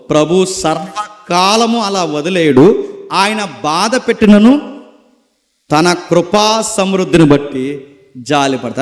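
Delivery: slow, measured verse reading; scripture reading. Acted. Preacher reading a Bible verse aloud, slow and measured. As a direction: read the verse slowly to the congregation.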